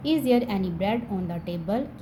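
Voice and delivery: slow, even, word-by-word reading; slow model sentence. Shown as a demonstration. Teacher reads the English sentence slowly to students. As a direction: read it out slowly for the class. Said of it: "teacher reads model sentence".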